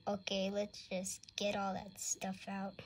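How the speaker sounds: sneaky whispered aside; whispering. Pretend. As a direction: whisper it so nobody hears. Sneaky dentist mutters aside.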